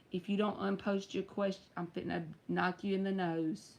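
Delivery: quiet, low mock threat; passive-aggressive, softly understated kidding; joking passive-aggressive. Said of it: "in a passive-aggressive sort of way".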